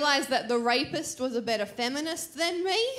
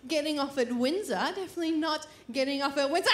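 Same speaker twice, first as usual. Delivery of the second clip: fake casual; 2 semitones higher, faster than usual. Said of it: "the trick is ... you're like".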